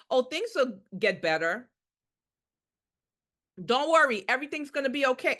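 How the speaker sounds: mock soothing reassurance; brushing off worry with a light soothing tone; false reassurance. Shown as a demonstration. Nurse soothing a worried patient, mock reassuring. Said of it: "Reassuring is saying things like".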